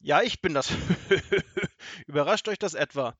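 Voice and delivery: loud triumphant robber with cackle; gloating robber laugh. A narrator's reading. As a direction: gloat over the caught boys. (triumphierendes Räuberlachen)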